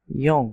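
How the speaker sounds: ইয়ং said as Korean "i-eung"; teacher naming the letter ইয়ং; Korean letter name. Shown as a demonstration. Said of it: "এই চিহ্নটাকে বলা হচ্ছে".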